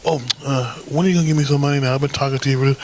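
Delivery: mock her pressing for cash; money-begging chick. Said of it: "chicks asking me for money".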